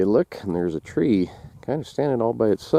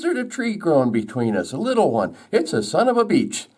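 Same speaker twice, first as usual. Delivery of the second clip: lightly put-on higher voice; insistent beech tree; 8 semitones higher than usual. Beech claims the sapling.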